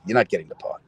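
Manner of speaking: hushed bad news. Manager delivers bad news.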